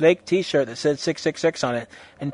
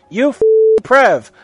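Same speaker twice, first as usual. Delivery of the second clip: high, loud insult; evil, depressed scorn; 8 semitones higher, 10 dB louder than usual. A narrator's reading. Cursing a captured teacher, evil and scornful. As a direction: spit the insult out with menace. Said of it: "I said, laughing with the depths of evil".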